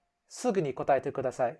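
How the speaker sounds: curt teacher command, fast and clipped; bossy and rude. Shown as a demonstration. Teacher ordering students in class, bossy. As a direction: order the class to answer now. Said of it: "it sounds a bit, hmm, bossy and rude".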